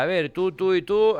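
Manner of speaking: high, loud barked orders; commanding general. Acted. General arriving at the ministry, barking loud orders.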